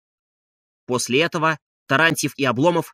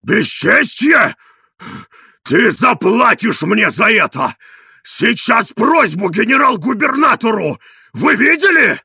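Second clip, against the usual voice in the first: slow, loud, higher threats; outraged; 7 semitones higher, 7 dB louder, slower than usual. A narrator's reading. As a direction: spit out the outrage slowly. Slapped man threatens revenge.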